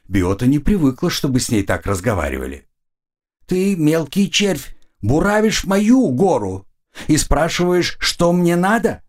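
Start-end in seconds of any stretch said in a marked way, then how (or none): 3.5-9.0 indignant goddess. Acted. Goddess berates insolent creature.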